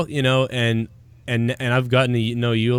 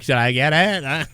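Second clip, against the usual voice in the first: slow mock wife voice; teasing copy of a wife impression; imitating friend's wife. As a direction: draw it out, mimicking the wife. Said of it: "hears you fucking impersonate her, like".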